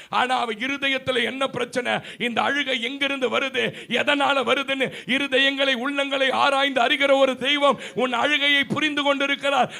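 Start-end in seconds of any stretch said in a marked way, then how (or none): 4.0-9.7 rising preaching. Real, not acted. Preaching climax.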